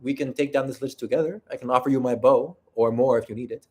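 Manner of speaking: lightly put-on Spanish accent. Shown as a demonstration. Attractive game character offering to fight a lich together, light Spanish accent. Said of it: "I give them a Spanish accent".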